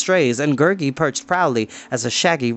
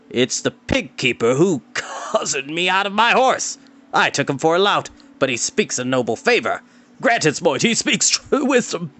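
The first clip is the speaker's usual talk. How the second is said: raised, half-laughing lordly voice; rueful lord; 4 semitones higher than usual. Acted. Lord to the king about Tarn, grudging and half-laughing. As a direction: admit it with grudging respect.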